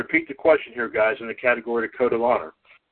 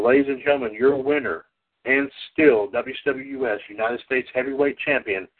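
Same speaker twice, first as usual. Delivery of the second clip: booming pumped announcer. Acted. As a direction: ring announcer introducing the champion. Introduces champion like ring announcer.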